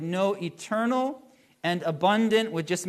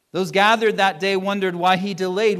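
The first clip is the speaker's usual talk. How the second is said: louder, driving the line home; emphatic restatement; 6 dB louder than usual. Real, not acted. Preacher presses the point to his congregation, louder and emphatic. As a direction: lean in and proclaim it.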